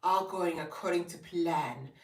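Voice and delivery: hushed villain plotting; scheming. Retold or imitated. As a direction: whisper like a schemer. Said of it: "I'm just like".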